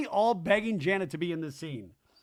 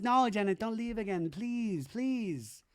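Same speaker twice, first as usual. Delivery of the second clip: higher, whiny begging; mock pleading Michelle; 6 semitones higher, slower than usual. Michelle begging Janet not to leave, whiny. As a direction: beg her not to go.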